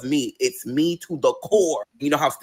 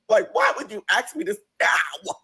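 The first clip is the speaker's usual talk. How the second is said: exasperated disbelief; 10 semitones higher than usual. Real, not acted. Exasperated aside.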